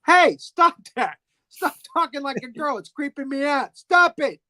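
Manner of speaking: high, loud creeped-out guard; hammed-up rattled protest; mock scolding. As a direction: snap at him in comic exasperation.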